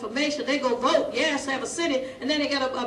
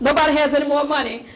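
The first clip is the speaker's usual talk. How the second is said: loud, emphatic repeat; big voice; 2 semitones higher, 6 dB louder, faster than usual. Real, not acted. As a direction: boom it out, hitting nobody. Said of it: "I got a big voice".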